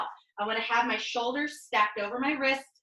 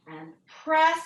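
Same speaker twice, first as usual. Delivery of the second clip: "press" punched higher and louder; energetic push cue; 5 semitones higher, 6 dB louder than usual. Shown as a demonstration. Coach pumping up the class on the final reps with a louder, higher "press". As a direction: fire "press" at the class to drive the rep. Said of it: "coach counting push-up reps".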